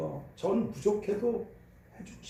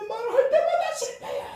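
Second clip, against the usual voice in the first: laughing while quoting; 5 dB louder than usual. Retold or imitated. Grandfather retells child's words, laughing.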